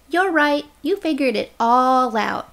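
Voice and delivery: sarcastic mocking. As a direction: praise him falsely, dripping sarcasm. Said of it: "Still mocking".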